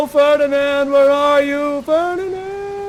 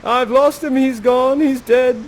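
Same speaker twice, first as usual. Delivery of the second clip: louder, higher anguished lament; grieving king; 7 semitones higher, 6 dB louder than usual. Acted. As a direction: wail for a drowned son, a touch hammed. King grieving his son.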